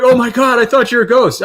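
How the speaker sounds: high-pitched retold panic; mock terrified cry. Ghost hunter retelling how visitors screamed on seeing them, mock terrified cry. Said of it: "they screamed bloody murder".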